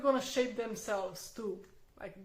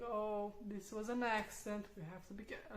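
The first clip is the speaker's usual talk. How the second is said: calm reassuring; 4 dB quieter than usual. Retold or imitated. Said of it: "And I'm saying".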